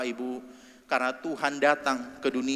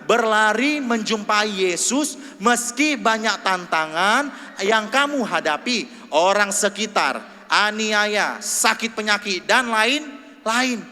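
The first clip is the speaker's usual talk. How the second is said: loud, slow, higher unison reading; reading together aloud; 7 semitones higher, 7 dB louder, much slower than usual. Real, not acted. Congregation reads the verse aloud, loud and slow. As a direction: drag each word out for the congregation. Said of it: "sama-sama kita baca".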